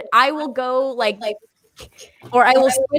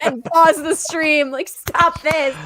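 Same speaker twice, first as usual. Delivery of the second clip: voicing the cat. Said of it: "He's like".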